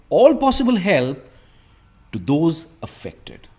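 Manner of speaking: measured model reading of the news text; reading aloud. Shown as a demonstration. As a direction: read the paragraph as a clear demo. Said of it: "इसे पूरा fast पढ़ूंगा". (पैराग्राफ को साफ़ पढ़कर दिखाना)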